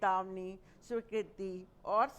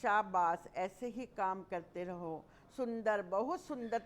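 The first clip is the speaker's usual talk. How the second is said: praising shabash. Shown as a demonstration. Teacher demonstrating praise to a pupil. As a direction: cheer a pupil on. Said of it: "प्रशंसा को प्रकट करते हैं".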